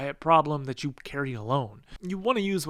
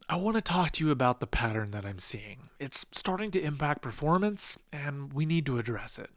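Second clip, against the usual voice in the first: calm and composed. Shown as a demonstration. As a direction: say it with calm executive control. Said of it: "nothing changed except my composure".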